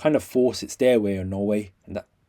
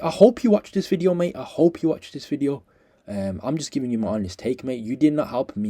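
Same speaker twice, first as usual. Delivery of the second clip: scathing critique; 3 dB louder than usual. Real, not acted. Calls out coach directly, rising anger.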